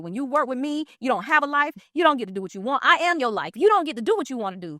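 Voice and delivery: retold going off. A rapper scolds his assistant on her return, imitated mild tirade. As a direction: imitate a boss laying down the law. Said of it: "he goes off".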